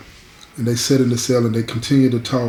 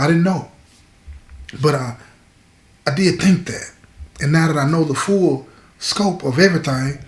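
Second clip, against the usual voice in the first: earnest confiding man; 3 semitones higher than usual. Acted. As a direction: voice his confession in a raised pitch. Voices tearful man in story.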